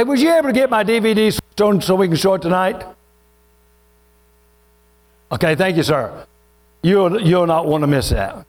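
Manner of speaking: ordinary talk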